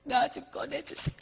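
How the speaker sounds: soft, spent tearful plea; weakened pleading. Retold or imitated. Monk begging Jesus to pull him out of hell, softly tearful. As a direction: beg as if strength is running out.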